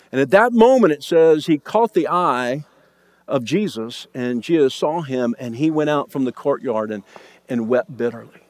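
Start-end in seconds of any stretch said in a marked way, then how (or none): 1.5-8.4 much softer and lower, grieving narration; hushed sorrow. A narrator's reading. Preacher telling of Peter weeping, hushed and low. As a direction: let the words sink in sadness. Peter's grief after denial.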